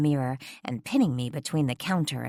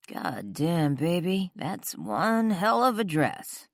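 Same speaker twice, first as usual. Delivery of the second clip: man's voice; 4 semitones higher, slower than usual. A narrator's reading. Man admiring the dress.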